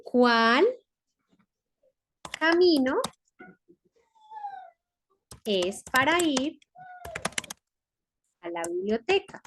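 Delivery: word-by-word dictation with long pauses. Shown as a demonstration. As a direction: give each word time to be written. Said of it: "dictating word by word". (dictado pausado palabra por palabra)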